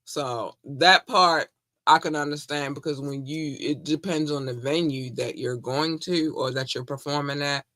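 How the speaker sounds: talking while eating popcorn; words round a mouthful of popcorn; munching popcorn. Real, not acted. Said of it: "I'm sorry, I'm eating popcorn".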